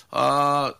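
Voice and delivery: ordinary talk, nothing marked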